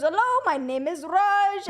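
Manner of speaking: a hint of Raj, the cheerful alter ego. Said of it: "his alter ego is this guy named Raj".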